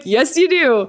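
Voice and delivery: laughing agreement. Retold or imitated. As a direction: tease dad while laughing.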